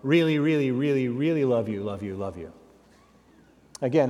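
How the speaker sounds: syrupy competitive flattery; outdoing flattery. Retold or imitated. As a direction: pile it on to beat her sister. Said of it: "not to be outdone".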